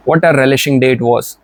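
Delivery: slow, deliberate example reading; slow example sentence. Shown as a demonstration. Teacher reading an example sentence slowly to students.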